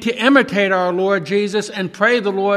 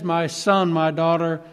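soft, lower fatherly voice fading to a hush; God speaking tenderly; 3 semitones lower, 4 dB quieter than usual. Retold or imitated. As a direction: gently reassure the child. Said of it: "He just simply says".

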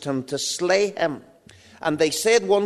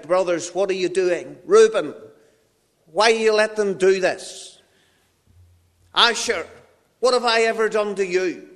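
higher, louder anguished plea to his brothers; crying out; 3 semitones higher, 4 dB louder than usual. Acted. Joseph pleads with his brothers as they attack, crying out. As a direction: cry out to betrayers in disbelief. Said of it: "he begins to cry out".

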